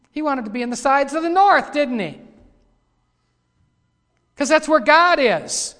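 high, loud preaching; full-force preaching. Real, not acted. Preacher telling why Satan wanted the north, in high, loud preaching. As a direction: drive the point home loudly.

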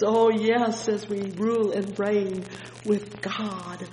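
ordinary talk

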